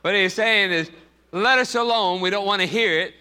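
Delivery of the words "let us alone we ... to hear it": mildly heated, higher-pitched objection; acted protest. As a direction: voice the possessed man's insistent refusal. Acts out what the devil is saying.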